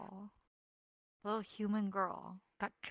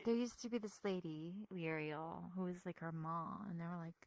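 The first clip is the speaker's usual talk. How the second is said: hushed secret; 2 semitones lower, 8 dB quieter than usual. Real, not acted. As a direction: keep it to a murmur. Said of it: "I'll whisper it to you".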